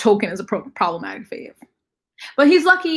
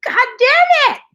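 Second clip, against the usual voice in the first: much higher, louder fed-up curse; exasperated curse; 7 dB louder, slower than usual. Real, not acted. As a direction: throw it out in exasperation. Frustration at publisher news.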